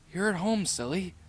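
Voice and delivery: teasing, with a touch of amusement; laughing. A narrator's reading.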